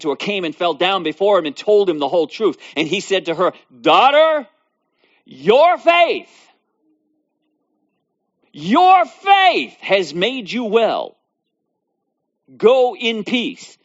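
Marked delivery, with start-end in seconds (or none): 3.8-13.8 tender Jesus. Acted. Jesus speaks to the woman.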